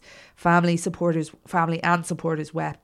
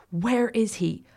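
mild call across a room, higher; 5 semitones higher, slower than usual. A narrator's reading. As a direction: raise the pitch as if calling over. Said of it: "Pete called across the court".

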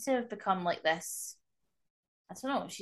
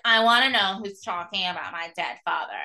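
retold confrontation; 6 dB louder than usual. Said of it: "she comes in the room and she's like".

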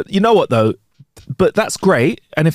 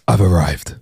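deadpan low; 6 semitones lower, slower than usual. Retold or imitated. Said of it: "I just say".

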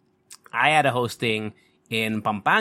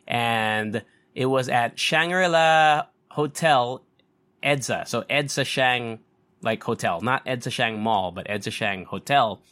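chewing gum; 3 semitones lower than usual. Real, not acted. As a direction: mouth busy with gum. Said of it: "I'm chewing gum".

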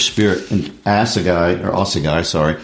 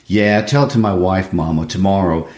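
pleading frustrated son, lightly acted; reading Walter. Son pressing his mother about the money, frustrated plea. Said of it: "I'll read Walter".

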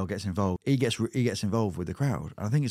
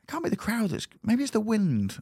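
inner voice; 12 semitones higher than usual. Retold or imitated. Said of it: "in my head going".

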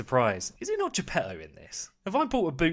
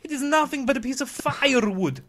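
put-on high, loud, accented alarm; hammed-up fright in an Eastern European accent; frightened carpenter; 11 semitones higher, 8 dB louder than usual. Carpenter baffled by talking wood, hammed-up frightened accent. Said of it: "trembling and stuttering with fright".

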